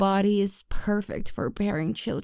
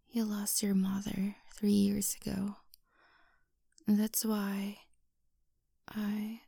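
soft breathy whisper close to the ear; 3 dB quieter than usual. Acted. Girlfriend whispering to her grieving boyfriend, soft whisper. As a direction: whisper it gently, like comforting a partner.

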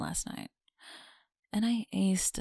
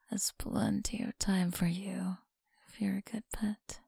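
teasing close whisper; breathy whisper to a listener. Acted. Whispered tease.

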